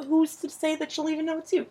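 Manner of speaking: sarcastic. Real, not acted. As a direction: feign doubt with a sarcastic lift. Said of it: "That was sarcasm".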